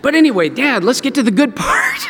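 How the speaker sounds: high, hammed-up change of subject; hurriedly upbeat. Brothers confessing to Dad, hammed-up eager deflection. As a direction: burst out eagerly to dodge the awkward part.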